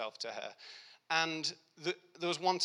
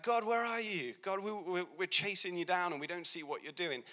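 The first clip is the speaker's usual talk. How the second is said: desperate plea; 5 semitones higher than usual. Retold or imitated. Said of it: "and you're like".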